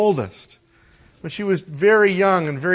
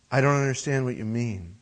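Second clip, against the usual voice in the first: put-on softer, innocent child's reply; 4 semitones lower, 7 dB quieter than usual. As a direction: play dumb like a small boy. Son's reply voiced in story.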